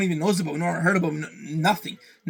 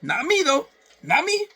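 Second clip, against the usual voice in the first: mock self-pity; 9 semitones higher than usual. Real, not acted.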